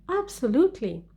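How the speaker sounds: Absolutely. pitched high, falling at the end; emphatic intonation. Shown as a demonstration. Reading sample answer to question four, emphatic Absolutely. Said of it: "you should use intonation".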